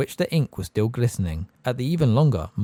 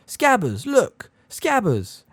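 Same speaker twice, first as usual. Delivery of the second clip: frantic; 10 semitones higher, 4 dB louder, much slower than usual. A narrator's reading. Ron frantic about his rat.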